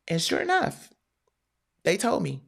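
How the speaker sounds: normal talking voice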